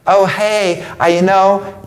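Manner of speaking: lightly imitating a meek guy; mock soft young dude. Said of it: "they're talking so feminine now".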